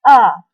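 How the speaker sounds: sharp falling "A", smashed downward, loud; fourth tone A. Shown as a demonstration. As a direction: snap "A" down like a badminton smash. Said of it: "dia seperti menyentak".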